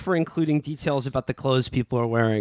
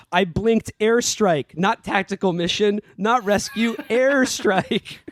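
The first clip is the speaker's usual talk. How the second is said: "airstrike" drawn out slowly and pitched high; emphatic correction; 5 semitones higher, slower than usual. A narrator's reading. Rescued general correcting his misread message to his wife, mock-emphatic. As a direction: climb in pitch to a final, insistent "airstrike".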